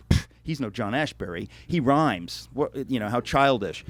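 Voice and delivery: a light imitated sneer at Longfellow. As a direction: scoff at the rhymes like a dismissive professor. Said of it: "actively taught to sneer at poems like that".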